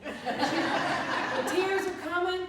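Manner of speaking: loud, high, drawn-out wail; hammed-up weepy cry; mock tearful. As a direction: stretch it out as a comic sob. Acts out tears coming, laughter.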